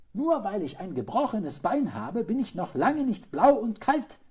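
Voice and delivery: high, loud little hedgehog voice; squeaky, insistent protest; piping squeak. A narrator's reading. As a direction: pipe up indignantly, very high. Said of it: "piepste er".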